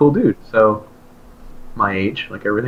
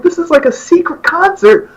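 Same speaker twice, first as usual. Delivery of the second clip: excited fan. Retold or imitated. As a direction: gush about the secret concert. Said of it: "I'm like".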